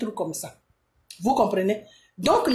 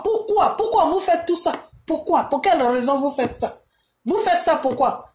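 higher, pleading demands of why; indignant outburst; 5 semitones higher than usual. Real, not acted. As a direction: hurl the question at them in disbelief.

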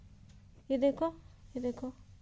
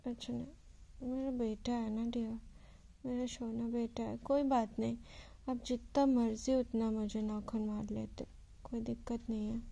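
tender coaxing; 5 dB quieter than usual. Real, not acted. Owner forgiving her pet that scratched her, softly tender. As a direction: soothe the pet softly after scolding. Soothing the pet after scolding.

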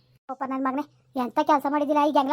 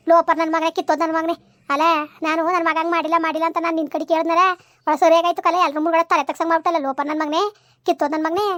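louder furious scolding; angry scolding; 4 dB louder than usual. Acted. Mother shouting curses at her disgraced son, angry. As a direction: hurl the curses at him.

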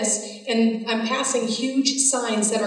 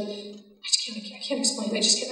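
hushed, halting imitation; barely voiced, broken-off retelling; emotional faltering; 6 dB quieter than usual. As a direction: softly mimic someone unable to explain. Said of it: "she's kind of emotional".

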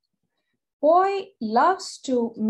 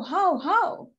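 dog bark imitation; 5 semitones higher than usual. A narrator's reading. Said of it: "it sounds like how".

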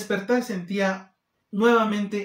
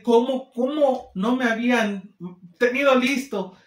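higher and louder, outraged question; patient fed up with the delay, higher and louder; indignant disbelief; 5 semitones higher, 4 dB louder than usual. Retold or imitated. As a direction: demand to know why nothing was ready.

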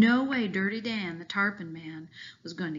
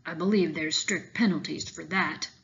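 a hint of the old fisherman's deep voice; imitating Dan's deep voice; 2 semitones lower than usual. Boy teasing Dirty Dan by imitating his deep voice. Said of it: "I imitated his deep voice".

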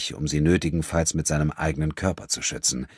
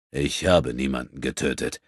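composed; 3 semitones lower than usual. Acted. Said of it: "antwortete Abudun gelassen".

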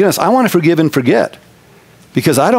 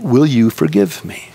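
humble request; 4 semitones lower than usual. Retold or imitated. Pastor humbly putting the choice in the other man's hands, gently. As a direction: ask it humbly, leaving the choice to him. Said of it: "getting down lower than him".

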